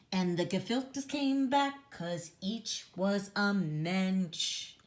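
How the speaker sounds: slow sing-song storybook reading; reading to children. Acted. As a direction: read it slowly like a bedtime rhyme. Reading rhyming picture book.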